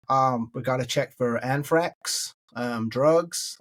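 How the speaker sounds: slow American official's voice; American accent. Retold or imitated. American customs man explaining a bag search, slow American accent. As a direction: imitate an American officer, taking it slowly. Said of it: "Sorry about my American accent".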